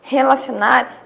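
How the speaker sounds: drawn out. Shown as a demonstration. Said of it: "quando eu falo".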